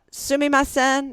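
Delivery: high, slow, drawn-out Japanese; polite excuse-me. Retold or imitated. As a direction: imitate timidly getting someone's attention. Retold polite approach to a colleague.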